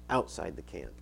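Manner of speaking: "outside" set apart after a pause, low and soft; stress on outside. Real, not acted. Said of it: "I kinda emphasize the word outside".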